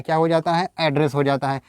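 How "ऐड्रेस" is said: "एड्रेस" as AD-ress; changed pronunciation. Shown as a demonstration. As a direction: open a at the start of "एड्रेस". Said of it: "pronunciation change हो जाता है". ("एड्रेस" को "ऐड्रेस" जैसे कहें)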